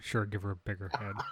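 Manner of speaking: muttered under breath. A player's character shakes his head at another's dog-naming; muttered under breath. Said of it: "mutter under my breath".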